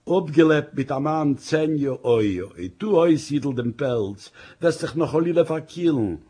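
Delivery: mild sobbing lament, lightly voiced; a touch of tears while still caring for him; same sobbing tone. Wife tells husband to take off his coat, a touch of sobbing. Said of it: "mit demselben schlippendigen Ton".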